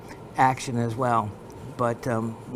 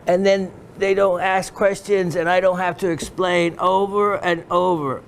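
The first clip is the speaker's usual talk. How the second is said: higher-pitched Pakistani dealer impression; put-on Pakistani dealer accent, pitched up; imitated Pakistani accent; 5 semitones higher, 4 dB louder than usual. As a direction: explain it in a lightly mimicked Pakistani accent. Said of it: "So he goes".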